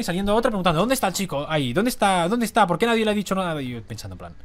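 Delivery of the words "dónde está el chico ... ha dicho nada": mock frantic, repeated questions pitched higher; recherche agitée imitée. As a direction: act out a worried search party. Imite l'homme qui cherche le garçon.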